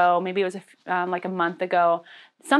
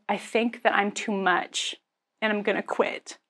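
defeated; 6 dB quieter than usual. Retold or imitated. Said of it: "words that I've literally never once said".

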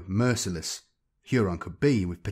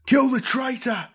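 high, loud battle howl; 5 dB louder than usual. A narrator's reading. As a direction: howl it like a baying pirate mob. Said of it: "the Red Corsairs howled in unison".

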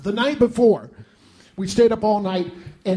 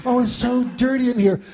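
high, fussy Southern lady voice; mother wiping dust with her handkerchief, fussing; 4 semitones higher than usual. Retold or imitated. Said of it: "mother cleaning the dust".

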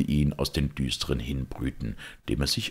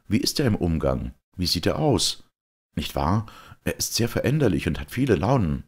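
higher, louder, curious Georg; eager young questioner; 5 semitones higher, 3 dB louder than usual. Acted. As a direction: press him for news of the duke. Georg asks eagerly about duke.

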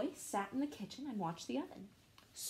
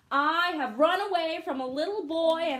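loud, higher yelling; calling out; 7 semitones higher, 9 dB louder than usual. Acted. Gingerbread man yelling to the fox, loud and high. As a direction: shout it so the fox can hear. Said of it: "called out".

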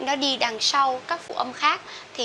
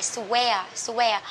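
Southern Vietnamese square. Shown as a demonstration. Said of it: "nhiều bạn miền Tây và miền Nam".

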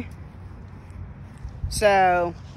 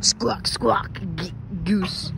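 honking voice; 4 semitones lower, 4 dB quieter, much slower than usual. Retold or imitated. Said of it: "they laugh like a goose".

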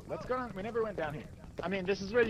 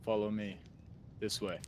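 Skyrim NPC voice; 8 semitones lower, 7 dB quieter than usual. Pretend. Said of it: "give me some Skyrim N P C".

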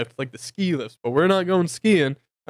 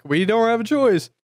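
mock whine; 8 semitones higher, 4 dB louder than usual. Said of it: "we're like".

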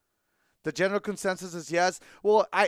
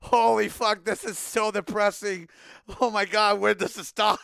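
half-laughing exclamations, slowed at the start; cracking up while complaining; laughing in disbelief; laughing through it; 4 semitones higher, 3 dB louder than usual. Retold or imitated. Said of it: "and I just started laughing".

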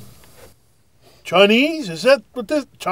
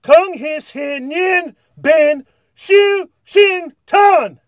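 a higher, punchier mock Mandarin greeting; more energy; 6 semitones higher than usual. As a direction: put energy into it. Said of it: "More energy".

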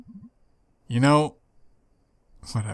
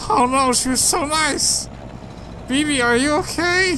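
higher, sharp burst of dismay; distraught shock; 12 semitones higher than usual. Acted. Drunk Mae learning Bea's mom died, distraught. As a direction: blurt it out in drunk panic. Reacting to friend's mother's death.

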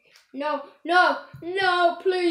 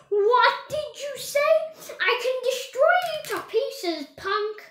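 higher, fast mock-threatening taunt; tough-guy challenge; 8 semitones higher than usual. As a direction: pick a fight like a cocky toy. Toy threatening the dinosaur.

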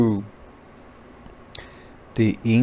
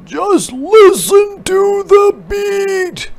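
high, slow, louder leader call; parade leader; 6 dB louder, slower than usual. A narrator's reading. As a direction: call out to the marchers. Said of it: "roared the leader".

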